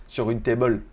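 "table" said as "tay-bol" in a fake American accent; joking Franglais American accent; mock American accent. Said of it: "avec l'accent américain".

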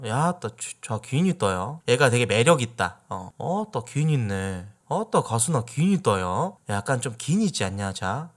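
Jeolla dialect. Shown as a demonstration. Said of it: "이런 느낌으로 쓰는 거거든요".

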